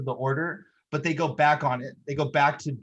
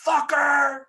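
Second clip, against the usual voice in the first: high, loud, drawn-out yell; yelled movie quote; 11 semitones higher, 6 dB louder than usual. Retold or imitated. Fan repeating the hero's jump line, yelled. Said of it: "I love that he yells that".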